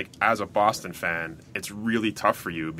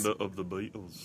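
put-on slow British accent; 3 semitones lower, 12 dB quieter than usual. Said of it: "slow motion British accent".

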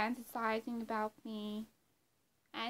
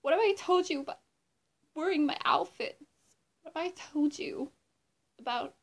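mock scolding; 4 semitones higher, 4 dB louder than usual. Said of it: "who was like".

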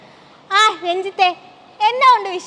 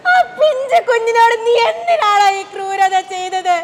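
tearful accusation. Acted. Mother confronts abuser tearfully.

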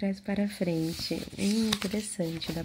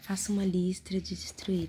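whispering. Acted. Whispered prompt.

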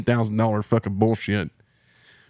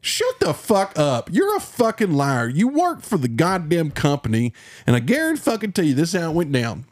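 imagined telling-off; 5 semitones higher than usual. Retold or imitated. To the adjuster, an imagined angry telling-off. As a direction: let him have it. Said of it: "I just wanna be like".

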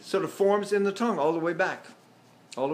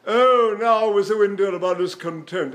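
louder, raised theatrical line reading; declaimed recitation; 2 semitones higher, 5 dB louder than usual. Shown as a demonstration. Teacher reciting to test the relaxed tongue, loud theatrical declamation. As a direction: declaim it like Shakespeare. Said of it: "make sure that I say".

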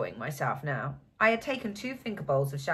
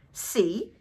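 triumphant cry; 4 semitones higher, 4 dB louder than usual. A narrator's reading. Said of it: "he cried triumphantly".

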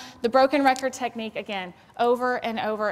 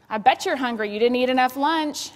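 louder, sarcastic parent jab; louder, mocking parent jab; 3 semitones higher, 6 dB louder than usual. Shown as a demonstration. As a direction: say it with a sneer. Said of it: "that's sarcasm".

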